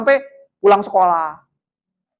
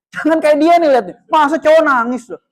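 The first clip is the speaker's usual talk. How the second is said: higher mock-scolding voice; mock shaming; 4 semitones higher, 3 dB louder than usual. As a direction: imitate ridiculing a crying boy. Acted adult pointing out crying boy.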